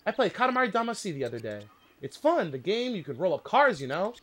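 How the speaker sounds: F1 driver voice. Retold or imitated. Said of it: "That is what he said".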